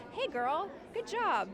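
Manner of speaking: put-on high, cheery hey girl; self pep talk. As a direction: cheer yourself on, bright and high. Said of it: "I don't spend a lot of time being like".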